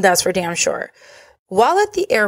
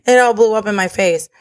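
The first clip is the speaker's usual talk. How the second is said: laughing; 4 dB louder than usual. Shown as a demonstration. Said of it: "Is that how they say it?".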